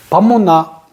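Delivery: curt Gyeongsang husband asking for food; Gyeongsang dialect. Retold or imitated. Gyeongsang husband asking his wife for dinner, blunt accent. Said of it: "우리 경상도".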